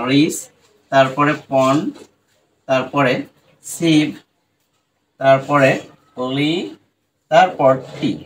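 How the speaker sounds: রিস, পন, সিভ, লি, টি split with pauses; one syllable at a time. Shown as a demonstration. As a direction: break responsibility into syllables. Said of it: "আমরা এটাকে এতটুকু নিতে পারি".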